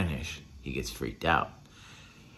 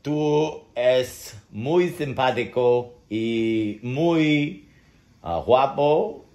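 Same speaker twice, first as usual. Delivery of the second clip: slow Spanish; slower than usual. Shown as a demonstration. Testing dog's reaction to Spanish.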